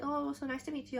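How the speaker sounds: lightly voiced idol, friendly and bright; idol greeting. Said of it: "she's like".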